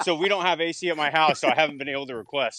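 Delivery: loud yelling. Explaining a noisy call from outside, yelling into a phone outside. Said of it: "I'm outside yelling into my phone".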